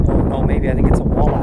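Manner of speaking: rising excitement as fish surfaces; thrilled, voice jumping up; excited. Real, not acted. Fish on the line, reacting live.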